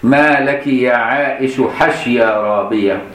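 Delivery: slow, deliberate classical reading; slow recitation. Acted. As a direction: read the Prophet's question slowly and gently.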